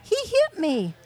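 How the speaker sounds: put-on high tattling kid voice; whiny child. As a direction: whine it like a little kid. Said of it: "Alls I'd hear was".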